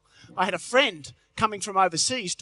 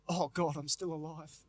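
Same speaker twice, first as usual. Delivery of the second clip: groggy mutter; 5 semitones lower, 12 dB quieter than usual. Retold or imitated. Groggy morning thought.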